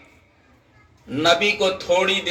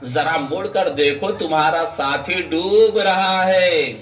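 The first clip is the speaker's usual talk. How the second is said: stately acted summons from God; divine call; 4 semitones lower than usual. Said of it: "قدرت نے آواز دی".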